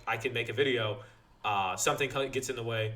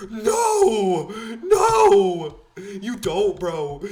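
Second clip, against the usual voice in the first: high, loud desperate begging; panicked pleading; 9 semitones higher, 12 dB louder, much slower than usual. Retold or imitated. Teen begging the instructor in mock panic. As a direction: plead frantically to get out of it.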